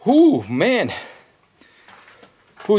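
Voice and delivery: talking through a burning mouth; pained, breathy from pepper heat; mouth burning from spicy food. Real, not acted. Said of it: "The back of my throat is burning".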